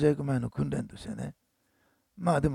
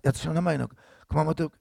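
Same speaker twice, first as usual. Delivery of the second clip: Kumamoto dialect; 3 dB louder than usual. Retold or imitated. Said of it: "話せるのは".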